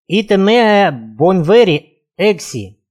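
slow hoarse Latin, fading; wheezing. Acted. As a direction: rasp it out through fever. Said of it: "прохрипел незнакомец". (хрипло, с трудом)

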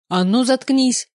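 loud, slow, furious shout; furious yell. A narrator's reading. Yelling at the angel to shut up. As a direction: bellow it down the phone at the mocking angel. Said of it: "ору, что из силы".

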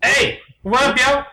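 high put-on English bird voice; unconvincing English accent. Cartoon bird Blue greets his mate, high English accent. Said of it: "very Englishmen".

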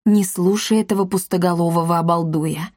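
ordinary delivery, nothing marked

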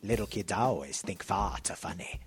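hushed, low parody of a distinguished Welsh actor; Anthony Hopkins. Acted. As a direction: send up a great actor in a low, quiet voice. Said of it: "I always mock, uh, Sir Anthony Hopkins".

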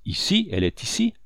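first word leaps high, then drops; stunned surprise. A narrator's reading. Commander learns the girl is here, stunned surprise.

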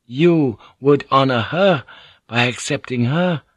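delicate. Acted. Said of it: "Mariko added delicately".

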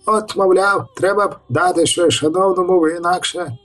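high, wheedling peasant voice; a lightly voiced peasant excuse; muttering peasant. A narrator's reading. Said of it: "бурмотав селянин".

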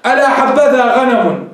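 slow, measured recital of the line; poem recitation. Shown as a demonstration. Teacher reciting a love poem to his class, slow recital. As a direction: chant the verse slowly. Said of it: "انظروا هذا البيت الذي معنا".

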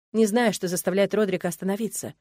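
ordinary delivery

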